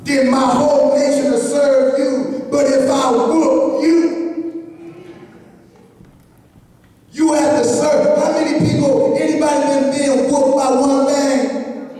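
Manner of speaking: telling Goliath's challenge in a sermon voice; preaching. Acted. Preacher retelling Goliath's dare, ending in a shout.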